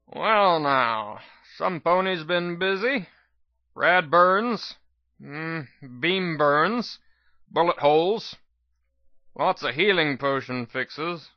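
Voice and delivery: lightly voiced old unicorn doctor, musing; a hint of a scraggly old medic sizing up wounds. Old doctor examines the narrator's injuries, lightly voiced.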